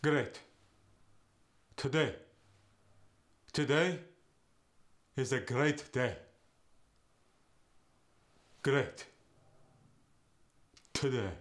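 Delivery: "Great." and "Today." with the vowel eh; Yiddish eh vowel. Shown as a demonstration. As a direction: Yiddish vowel: "gret", "tode". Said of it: "go to".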